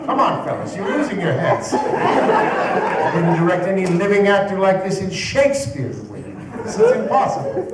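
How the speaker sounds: high, loud and exasperated, laughing; exasperated outburst. Retold or imitated. Exasperated high outburst. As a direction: Welles blowing up at the ad directors. Welles exploding at the directors.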